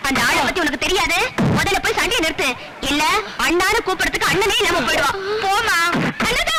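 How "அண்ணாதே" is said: calling out. Acted. Calling out to brother.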